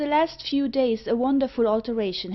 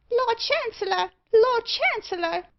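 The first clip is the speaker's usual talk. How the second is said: much higher piercing bird squawk; screeching parrot; 4 dB louder than usual. Acted. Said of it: "screamed Meg".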